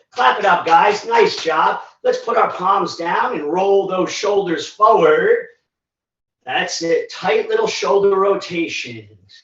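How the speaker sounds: winded coaching voice, panting between cues; out of breath. Real, not acted. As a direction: cue the move while still catching breath. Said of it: "I'm out of breath".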